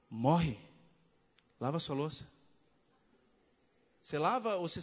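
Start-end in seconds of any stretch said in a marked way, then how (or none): 0.1-2.3 a deep, inward voice of God; God speaking in the heart. Retold or imitated. God telling the husband to wash the dishes, low and firm. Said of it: "Aí Deus, ele fala assim, bem no seu coração".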